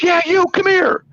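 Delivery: high mock tough-guy threat; threatening guy. Retold driver threatening him, high mock menace. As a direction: ham up the bully. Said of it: "He goes".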